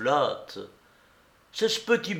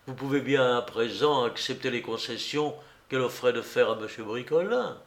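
lower, measured persuading voice; lightly voiced reasonable friend; 4 semitones lower, 4 dB quieter than usual. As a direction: reason with a friend, low and level. (ami qui raisonne posément)

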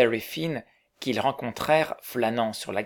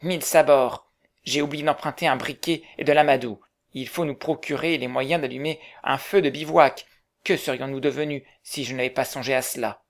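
exclaiming. Acted. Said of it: "s'écria".

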